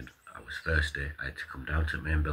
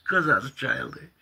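mock boss voice; 9 semitones higher, 5 dB louder than usual. Mimicking boss in retold argument.

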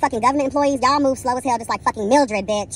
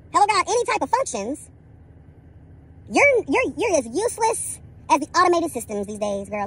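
reading her for filth; 3 semitones higher than usual. Retold or imitated. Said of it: "I read her for filth".

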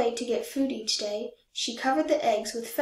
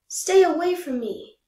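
loud, higher shout at the goose; 6 semitones higher, 7 dB louder than usual. Acted. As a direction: yell it to scare the goose off. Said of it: "I shouted".

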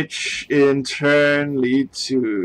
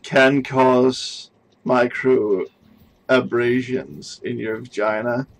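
mock British accent; 3 dB louder than usual. Reading a sex article aloud for the stream in mock British accent. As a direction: read it out like a clumsy Brit. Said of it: "in your best British accent".

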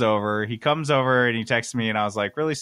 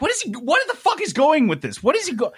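retold disbelief, laughing and much higher; incredulous laughing; 14 semitones higher, faster than usual. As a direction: laugh through the shock as you retell it. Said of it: "and I'm like".

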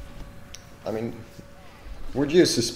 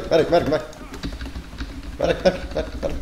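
man down shout; 8 semitones higher, 6 dB louder, much faster than usual. Acted. Calling for medic repeatedly.

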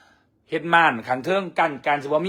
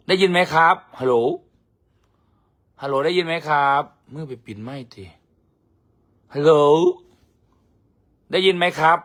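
louder calling into the mic; mic check; 4 dB louder than usual. Real, not acted. Checking the livestream audio, calling hello. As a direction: call out to check if they hear.

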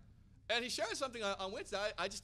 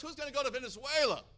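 raised, rousing question; rallying call; 5 semitones higher, 7 dB louder than usual. Retold or imitated. Preacher asking the leaders, loud rousing question. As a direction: call out to the crowd. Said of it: "He goes".

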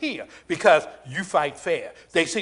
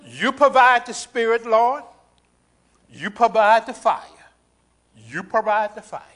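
raised, held-out prayer call; spaced, ringing prayer lines; prayerful declaration; 3 semitones higher than usual. Real, not acted. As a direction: call up to the Lord in short phrases. Calls out in prayer to God.

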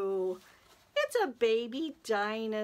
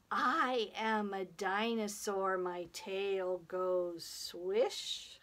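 measured chant, slowing at the end; children's action rhyme; slower than usual. Pretend. Teacher leading children in a dinosaur rhyme, slow chant. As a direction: chant it in steady beats for children to follow.

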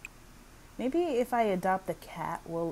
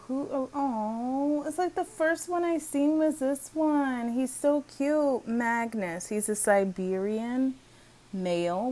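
high, loud cooing over a puppy; delighted gushing; 6 semitones higher, 6 dB louder than usual. Real, not acted. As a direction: gush over something adorable, voice up high.

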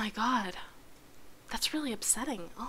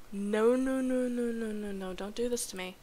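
fading pleading; 11 dB quieter than usual. Real, not acted. Pleading with crashed game.

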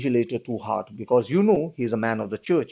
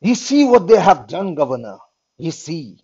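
urgent plea; 2 semitones higher, 6 dB louder than usual. Acted. Prisoner pleading with the governor to see the paper, loud and urgent. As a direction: push him to look, urgent.

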